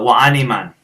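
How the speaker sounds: Chinese phrase in an American accent. Shown as a demonstration. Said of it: "I have just such an American accent".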